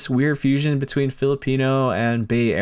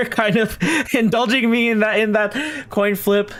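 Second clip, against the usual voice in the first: thanks through a real laugh, pitched up; 11 semitones higher than usual. Real, not acted. Streamer laughing while thanking Edward for the coin flip. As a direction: giggle through the thank-you.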